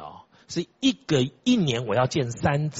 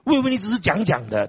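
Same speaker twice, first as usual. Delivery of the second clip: amazed disciple; 7 semitones higher, 6 dB louder than usual. Retold or imitated. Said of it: "他说".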